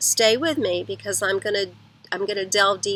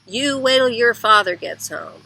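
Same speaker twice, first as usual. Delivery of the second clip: parental threat; 3 semitones higher, 5 dB louder than usual. Retold or imitated. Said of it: "telling on him to other people".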